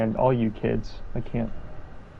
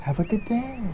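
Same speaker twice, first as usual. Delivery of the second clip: much higher, put-on sing-out; 12 semitones higher, 3 dB quieter than usual. Co-player echoing a streamer's goodbye to a viewer, high put-on voice. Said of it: "just go full-blown robotic voice on him".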